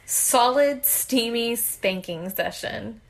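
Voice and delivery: slow careful tongue twister; fast tongue twister. Shown as a demonstration. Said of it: "Say that ten times fast".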